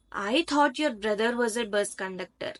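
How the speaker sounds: "I" emphasized at the start; stress on I. Shown as a demonstration. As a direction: lean on the opening "I". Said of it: "I thought, not someone else".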